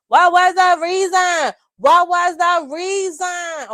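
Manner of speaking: very high, slow, shouted rapper impression. Retold or imitated. Vlogger hamming a rapper at her mic, shouting high. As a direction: drag out each word like the rapper. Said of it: "In my rapper voice".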